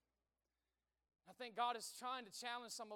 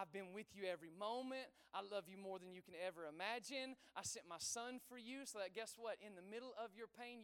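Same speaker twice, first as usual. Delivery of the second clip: tender voice of God; 3 semitones lower than usual. Acted. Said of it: "what does he say to you".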